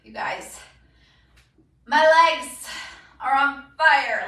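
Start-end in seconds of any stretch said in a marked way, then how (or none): 1.8-4.2 straining mid-workout; exercising hard. Real, not acted. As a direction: push the words out while working hard. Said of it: "excessively crying".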